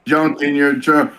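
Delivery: low, smooth-talking wrestler imitation; Viscera. Shown as a demonstration. Podcaster demonstrating how Viscera sounded, low-pitched come-on. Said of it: "this is exactly how he sounded".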